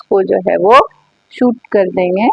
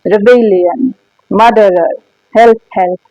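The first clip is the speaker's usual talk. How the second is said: a mildly raised mock alarm call; soldier shouting; 4 dB louder, much slower than usual. Soldier cries for help after Tell refuses to salute: mild mock shout. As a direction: read it as a soldier crying out for help, lifted only a little. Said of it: "soldier चिल्लाने लगा".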